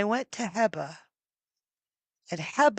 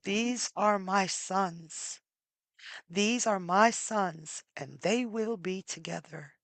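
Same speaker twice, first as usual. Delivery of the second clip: solemn vow; 4 dB quieter than usual. Acted. Zeus declares his will.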